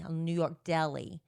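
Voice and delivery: put-on a quick New York accent on deli. Telling her husband about the deli, New York accent. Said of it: "what was that you were just doing".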